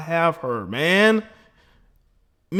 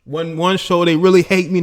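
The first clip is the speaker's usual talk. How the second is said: ordinary talk, nothing marked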